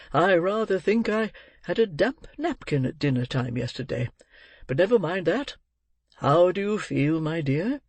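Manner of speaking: lightly voiced old gentleman, swooping intonation; a hint of fussing, then kindly asking. Narrator voices Mister Brownlow.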